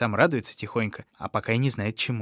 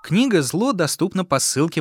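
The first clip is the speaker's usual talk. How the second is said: excited; 6 semitones higher, 3 dB louder than usual. Acted. Ad for book.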